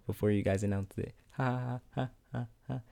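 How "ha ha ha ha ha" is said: quiet awkward chuckle; nervous laugh. Real, not acted. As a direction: laugh it off uneasily. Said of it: "that's a nervous laugh".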